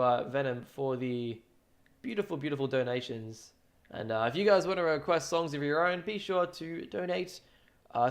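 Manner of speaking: stiff robot voice for the donation read. Acted. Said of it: "now I can stop speaking like a robot".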